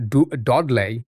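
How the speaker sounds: tentative Dudley accent, "Dodlay". Shown as a demonstration. Streamer checking a local pronunciation with chat, Dudley accent. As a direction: question it in an attempted Black Country accent. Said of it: "Is that how they say it?".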